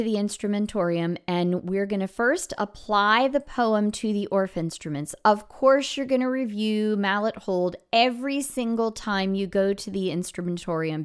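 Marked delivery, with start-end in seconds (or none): none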